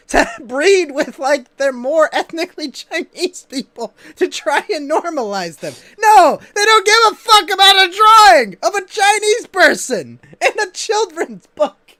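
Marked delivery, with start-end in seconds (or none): 6.0-11.9 exasperated shout. Real, not acted. Indignant rant about China.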